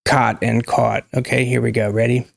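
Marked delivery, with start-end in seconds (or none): 0.0-1.1 "caught" first with open AH, then with rounded AW; two vowels side by side, AH then AW in "caught"; cot and caught contrast. Shown as a demonstration. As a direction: set the two vowels apart, "caught" as kaht, then kawt. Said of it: "I'm gonna just do repeating".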